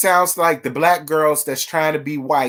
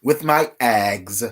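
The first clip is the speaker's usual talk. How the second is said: slow, drawn-out Valley girl mimicry; lightly mock Tambra's Valley girl talk; a hint of a Valley girl lilt, slowed down; 5 semitones lower, slower than usual. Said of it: "this Sweet Valley girl high accent".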